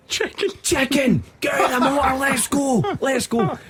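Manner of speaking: high, slow jeering scream; mock screaming. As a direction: ham up the drunk's yell. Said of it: "he starts screaming".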